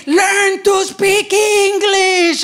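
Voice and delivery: slow, sneering order; mock heckler. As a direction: sneer it like a bully. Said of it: "when he says to me".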